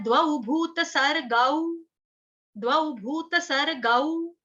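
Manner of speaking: "द्वौ भूत सर गौ" slowly, syllable by syllable; slow syllable recitation. Shown as a demonstration. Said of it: "तो यहाँ पे भी क्या है?". ("द्वौ भूत सर गौ" धीमे-धीमे)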